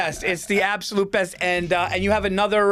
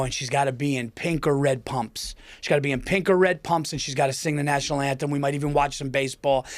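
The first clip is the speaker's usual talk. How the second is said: changed voice; 3 semitones lower than usual. Retold or imitated. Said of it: "I changed my voice".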